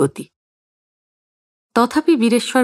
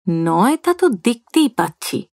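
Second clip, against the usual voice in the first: through gritted teeth. Acted. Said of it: "দাঁতে দাঁত চেপে উচ্চারণ করেন".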